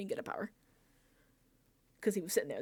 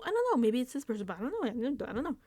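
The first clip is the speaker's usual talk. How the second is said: lightly imitated dithering, pitched up; waffling Vince; 3 semitones higher, faster than usual. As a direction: hedge and backtrack in a slightly mocking higher voice. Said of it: "Vince has to do his whole little".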